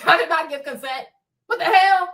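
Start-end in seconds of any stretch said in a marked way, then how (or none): 1.5-2.1 high, loud shocked what. Real, not acted. Finding out she's pregnant, a high loud shocked cry. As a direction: blurt it in disbelief.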